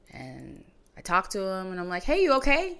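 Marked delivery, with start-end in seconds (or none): 2.0-2.8 high, worried "hey"; calling his brother after a nightmare, worried and high; anxious high check-in. Retold or imitated. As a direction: sound casual but worried.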